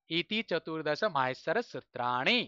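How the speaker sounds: slow, careful read of ইতি চতুর্দশ মাহেশ্বর সূত্রাণি. Shown as a demonstration. Teacher reading the closing line slowly to students. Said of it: "আস্তে আস্তে পড়ে শোনালাম".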